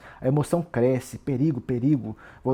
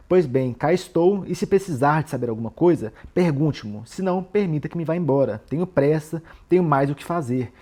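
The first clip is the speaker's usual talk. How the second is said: confrontational, firm and slightly louder retold challenge; Raskolnikov; 4 dB louder than usual. Raskolnikov challenging Porfírio to ask or let him leave, firmly defiant. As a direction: imitate a man demanding to be questioned or released. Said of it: "olha só como ele vai afrontando".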